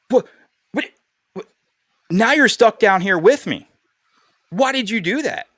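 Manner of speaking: mock panic at being joined in the hole; retold panic. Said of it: "the dude down there starts panicking".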